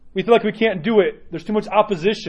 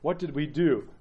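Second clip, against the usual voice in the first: worried inner question; 4 semitones lower, 9 dB quieter than usual. Retold or imitated. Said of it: "we should think".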